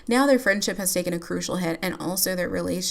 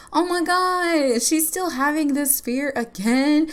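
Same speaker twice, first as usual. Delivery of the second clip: slow, raised exclamation of disbelief; dismayed surprise; 7 semitones higher, slower than usual. Real, not acted. Player reacting to the relationship fear again, dismayed. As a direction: stretch it out, exasperated.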